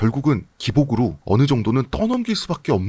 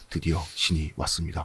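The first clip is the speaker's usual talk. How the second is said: mysterious narrator voice, much lower and quieter; 8 semitones lower, 8 dB quieter than usual. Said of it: "비비씨, 그 영국 말투, 영어로 하면서 엄청 신비하게".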